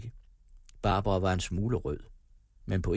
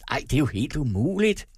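persuasive; 5 semitones higher, 5 dB louder than usual. A narrator's reading. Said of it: "sagde Andreas overtalende".

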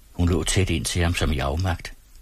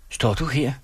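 displeased; 7 semitones higher than usual. A narrator's reading. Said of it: "sagde hun utilfreds".

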